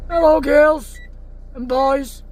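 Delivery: loud hello to the cows; calling out. Real, not acted. Farmer calling out a loud hello to his cows. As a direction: call it across the field.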